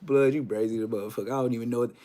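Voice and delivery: low, quick deadpan verdict; mock lie detector verdict. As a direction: rattle it off like an examiner.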